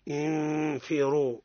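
انفروا with ن hidden before ف, slow held ghunna; ikhfa example. Shown as a demonstration. Teacher giving the faa example, slow ghunna. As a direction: draw out the nun of انفروا. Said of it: "مثال للفاء".

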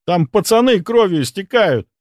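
urgent high plea; beg, panicked and loud; desperate plea. Acted.

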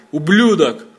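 put-on a sudden raging roar at the boy; enraged father's shout; furious shout. A narrator's reading. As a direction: bellow the insult in rage. Father bursts out in rage.

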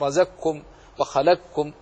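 رزقكم and وخلقكم as razakkum, wakhalakkum; ق of رزقكم and وخلقكم turned into a doubled ك; major assimilation. Shown as a demonstration. Teacher listing Abu Amr's readings, رزقكم and وخلقكم with doubled ك. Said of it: "بالإدغام الكبير".

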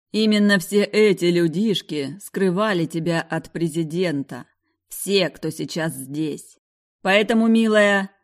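venomous sweetness. Acted. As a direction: smile while threatening. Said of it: "растянулся в ядовитой улыбке".

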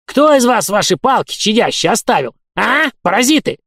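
put-on high, loud old-man yell. A narrator's reading. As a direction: bawl at them like an angry old caretaker. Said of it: "вопил комендант". (вопль старика-коменданта)

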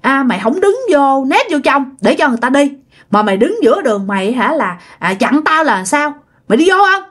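mildly acted drunk man telling someone off; drunken scolding. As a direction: scold like a tipsy elder, lightly. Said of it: "ổng chửi nói".

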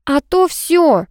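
slow, high, ominous warning; drawn-out ultimatum. A narrator's reading. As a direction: stretch it out as a final threat. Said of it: "предупредила я".

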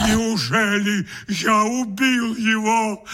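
slow, hammed-up horror; stagey mock anguish; theatrical despair. A narrator's reading. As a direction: wring your hands and overplay it. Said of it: "театрально заламывая руки".

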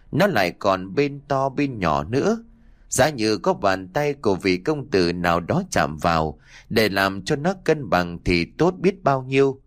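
lightly voiced coy girl; a hint of a simpering maiden; man doing a woman's voice. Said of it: "Triệu lại lẩm bẩm như là cố tình cho ai đó nghe thấy".

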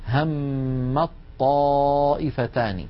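الطائفتان with ت merged into a doubled ط; very slow recitation demo; drawn-out demo, no ت at all; merged reading. Shown as a demonstration. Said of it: "لا أنطق التاء أبدا".

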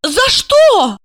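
high, loud astonished question. Acted. Asya, astonished at the news. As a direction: gasp out the question. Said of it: "поразилась Ася".

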